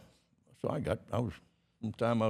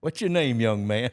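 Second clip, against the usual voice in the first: loud showman question; 4 semitones higher, 8 dB louder than usual. Retold or imitated. Barker picks Roger from crowd.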